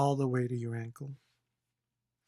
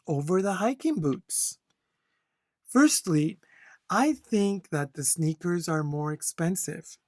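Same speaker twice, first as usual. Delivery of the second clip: a model answer read like a teacher showing good flow; model reading with flow and intonation. Shown as a demonstration. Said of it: "please follow my flow and intonation".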